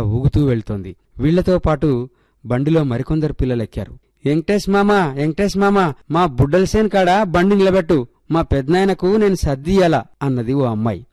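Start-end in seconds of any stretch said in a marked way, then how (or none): 4.2-10.0 put-on a village girl calling loudly to the uncle; raised, higher calling voice. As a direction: hail the cart driver from behind. Girl calls out to the cart driver.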